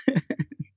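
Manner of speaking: short laugh; amused laugh after a story. Real, not acted. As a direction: let out a brief laugh. Laughs after retelling his reaction.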